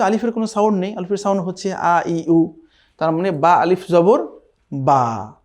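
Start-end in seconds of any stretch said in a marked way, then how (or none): 4.7-5.3 বা with the vowel stretched a little, for the alif; slightly drawn out. Shown as a demonstration. Teacher shows students the alif length: বা, lightly drawn out. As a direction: lengthen the আ of বা just a bit. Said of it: "just একটু টান দিয়ে বলতে হবে".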